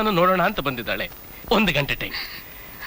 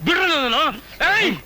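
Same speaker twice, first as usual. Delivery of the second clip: shouting to be let go; 6 semitones higher than usual. Acted. Being grabbed by thugs.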